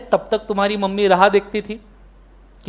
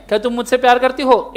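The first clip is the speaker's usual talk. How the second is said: TV serial hero; faster than usual. Retold or imitated. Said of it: "serial देखो तो".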